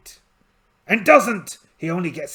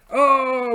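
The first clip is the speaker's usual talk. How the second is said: mock elf scream; 11 semitones higher, 8 dB louder than usual.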